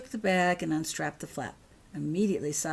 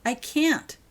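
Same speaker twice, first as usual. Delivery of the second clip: protesting; 8 semitones higher, 7 dB louder than usual. Acted. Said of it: "protested Holly".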